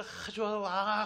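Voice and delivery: mock-excited crowd hailing a king; mock crowd cheer. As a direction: cheer like a fan crowd, half in fun. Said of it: "하고 쫓아다서 막 이랬는데".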